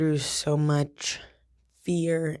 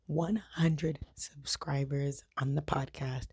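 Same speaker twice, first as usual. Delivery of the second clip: slow whispered reveal; 5 dB quieter, slower than usual. Real, not acted. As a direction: hush it like a secret reveal. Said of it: "to try to build suspense".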